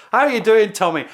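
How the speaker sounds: loud mock German call across the trenches; called across no man's land. German soldier shouting to British lines, loud playful greeting. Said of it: "they could shout out across".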